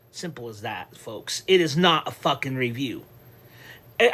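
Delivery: ordinary delivery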